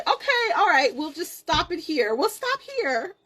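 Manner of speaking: high-pitched, giggly mock agreement; laughing imagined nurse. Nurse agreeing to stop the labor, laughing mock voice. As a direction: squeal it, breaking into laughter.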